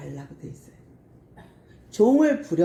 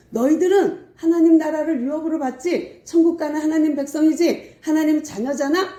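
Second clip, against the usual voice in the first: fervent assurance; 7 semitones higher, 3 dB louder than usual. Retold or imitated. Assuring believers of heaven.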